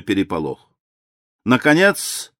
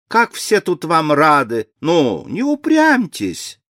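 воркующе; 4 semitones higher than usual. Acted. Леди Лин уговаривает старого графа.

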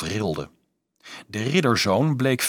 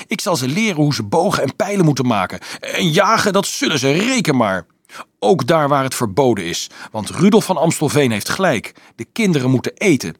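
louder, higher, excited volunteering; calling out eagerly; 6 semitones higher, 6 dB louder than usual. A narrator's reading. Overjoyed Carolus offering to lead the hunters, calling out. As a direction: declare it with boyish zeal. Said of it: "riep hij".

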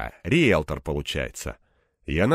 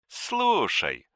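higher, sly coaxing call; 9 semitones higher than usual. A narrator's reading. Anton coaxing Egor, sly and ingratiating. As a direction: draw him in slyly. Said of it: "хитро и вкрадчиво спросил он".

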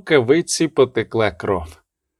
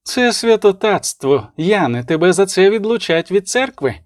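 higher-pitched, mildly outraged warning; understated indignation; 6 semitones higher than usual. A narrator's reading. Abbess threatens prince with excommunication, mildly indignant. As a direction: warn with restrained outrage.

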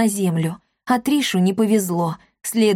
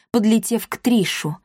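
plain reading voice

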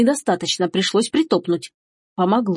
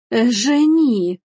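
slow, drawn-out gasped name, pitched up; aghast exhale; 4 semitones higher, much slower than usual. Acted. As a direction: breathe the name out in shock. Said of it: "только и смогла выдохнуть матушка". (потрясённо выдыхает)

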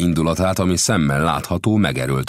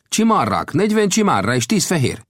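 higher-pitched voice for the gambusino, earnest storyteller; gambusino's voice; 4 dB louder than usual. A narrator's reading. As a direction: tell the tale as the friendly gold digger. Gambusino answers.

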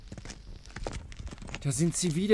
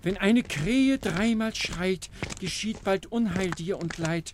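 ominous rhyme; slower than usual. Acted. Bonko recites crow omen.

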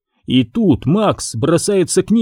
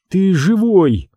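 tearful exclaim; 6 semitones higher, slower than usual. A narrator's reading. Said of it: "сквозь слёзы, не веря себе, восклицает она".

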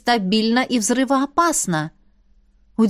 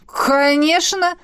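slow, high exclamation; exclaimed; 9 semitones higher, 3 dB louder, slower than usual. Acted. Scouts exclaim proudly to the rector, high and slow. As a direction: call it out, higher and drawn out. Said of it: "воскликнули разведчики".

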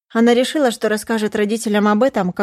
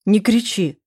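stern; 2 semitones higher than usual. Acted. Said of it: "строгий голос матери".

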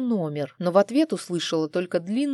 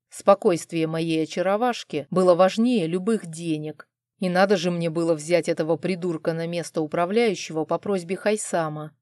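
normal talking voice

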